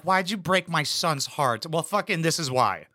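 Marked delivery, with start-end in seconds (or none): 0.0-1.7 lightly voiced whiny mom, slow; drawn-out mock of a fussy mother. Commentator mimics the mother-in-law scolding the wife, mildly mocking. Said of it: "his mom is like".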